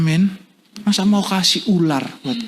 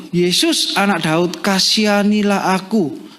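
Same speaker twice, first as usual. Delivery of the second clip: raised, drawn-out plea to Jesus; crying out; 3 semitones higher than usual. Acted. Preacher reading the blind man's cry to Jesus, crying out. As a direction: read it as a blind man's call for mercy. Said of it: "lalu ia berseru".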